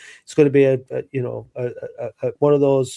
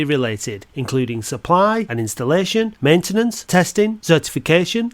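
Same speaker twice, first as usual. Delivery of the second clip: sponsor ad read. Acted. Host reading a sponsor message for a fire safety firm, upbeat ad read. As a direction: read it like a local radio advert.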